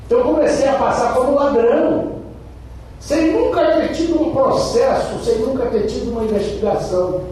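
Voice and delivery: indignant. Real, not acted. Indignant about being called thief.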